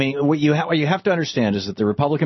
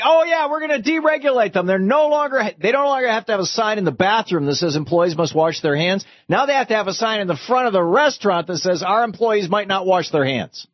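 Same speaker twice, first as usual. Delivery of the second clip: much higher, mocking singsong; sarcastic mock voice; 9 semitones higher than usual. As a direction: parody their spin with scorn. Sarcastic mimic of Republican spin.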